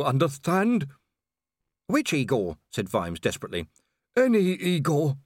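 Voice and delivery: a hint of a dying servant; dying Igor. A narrator's reading. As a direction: give last instructions while fading.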